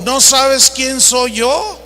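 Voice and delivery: slow, haughty mock of a big shot; arrogant boast. Preacher mocks the typical arrogant man, slow and haughty. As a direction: drawl it like someone who thinks he's important. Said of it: "El típico".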